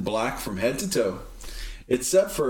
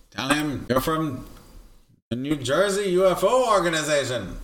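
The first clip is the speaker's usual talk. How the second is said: alien voice; 3 semitones higher than usual. Pretend. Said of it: "the alien voice".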